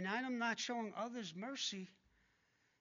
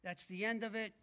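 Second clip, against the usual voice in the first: careless shrug. Retold or imitated. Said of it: "a worldly sorrow is".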